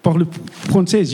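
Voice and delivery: struggling through French with lips on teeth; slow, hampered French; French with lips tucked. Shown as a demonstration. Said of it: "can't put your lips in your teeth".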